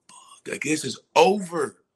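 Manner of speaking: whispered curse swelling into slow, pained protest; retold weeping outburst. Senior in the locker room realising it's over, retold weeping. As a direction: start under the breath, then lean hard and slow into the words. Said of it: "like, weeping".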